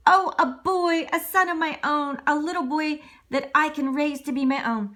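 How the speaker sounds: put-on father overjoyed at his real boy; joyful Geppetto. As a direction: gush with happiness. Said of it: "When Geppetto woke up and saw Pinocchio".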